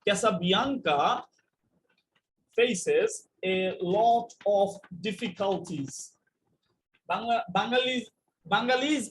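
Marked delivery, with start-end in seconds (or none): 0.0-5.9 slow demo reading. Shown as a demonstration. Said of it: "যেমন ধরেন, একটা শব্দ লিখলাম".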